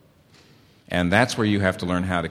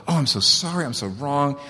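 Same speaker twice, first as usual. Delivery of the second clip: overdone, gushing sorry, pitched up; abject apology; 5 semitones higher than usual. Retold or imitated. Husband mock-grovelling to wife, hammed-up abject apology. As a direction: grovel so she can't go on. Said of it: "by apologizing so abjectly".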